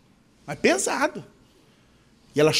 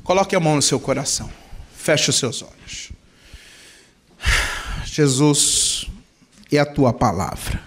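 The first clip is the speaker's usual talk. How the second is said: leading prayer. Acted. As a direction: pray aloud, pleading and intimate. Leads prayer with music.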